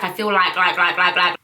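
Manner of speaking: mock your own habit of saying like; repeated filler words, rattled off in self-parody; self-mocking verbal tic. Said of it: "I hate the way how I speak. I'm always saying".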